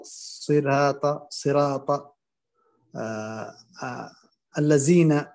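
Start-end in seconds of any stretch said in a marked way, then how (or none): 0.0-2.1 صراط with a light, thin ra. Shown as a demonstration. Teacher demos a wrong thin ra: صراط. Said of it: "أو ترقيق الراء".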